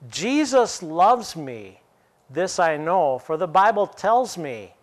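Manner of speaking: slowly, each word weighed; slow recitation. Shown as a demonstration. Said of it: "inflection of your voice".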